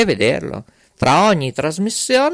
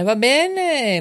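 "va bene" sung out much higher, stretched on "bene"; high sing-song; 11 semitones higher than usual. Acted. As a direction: lilt "va bene" up high with a falling end. Host repeats va bene, sing-song.

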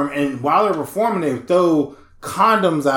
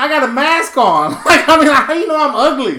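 louder, higher, mock outraged comeback; indignant retort; 8 semitones higher, 6 dB louder than usual. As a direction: blow up at the kid in disbelief. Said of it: "I was like".

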